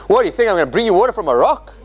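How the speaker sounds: fast, mocking taunt; mock taunt, rattled off fast. Shown as a demonstration. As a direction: sneer the question at them. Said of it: "how do you wanna say?".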